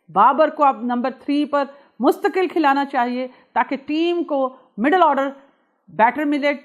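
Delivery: mildly heated, emphatic quote-reading; a touch of imitated anger, slowing on key phrases; angry Mohammad Hafeez quote. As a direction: read out an irate critic's verdict with measured weight. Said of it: "professor صاحب کا غصہ آپ نے دیکھ لیا".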